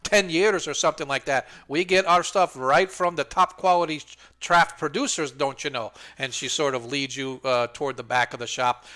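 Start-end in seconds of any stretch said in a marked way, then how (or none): 0.0-5.9 high, loud, chirpy shopkeeper calling her son; a bustling middle-aged merchant woman, pitched way up; fussy shopkeeper woman. Acted. Shopkeeper greets newcomers, calling her son in a high voice. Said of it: "she goes".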